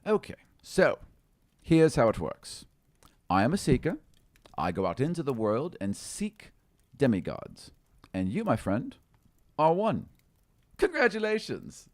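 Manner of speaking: high, grandly pleased halfling; proudly revealing the player is a demigod; halfling seeker. Acted.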